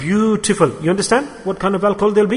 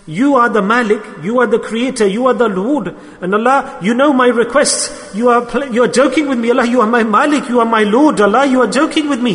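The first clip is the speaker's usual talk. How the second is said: higher-pitched, insistent disbelief; incredulous appeal; 5 semitones higher than usual. Acted. Man to Allah who must be joking, incredulous appeal. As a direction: appeal upward as if you can't believe it.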